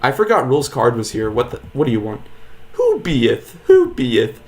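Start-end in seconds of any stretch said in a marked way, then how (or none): 2.7-4.4 mock old-timey voice. Mock archaic character voice reading.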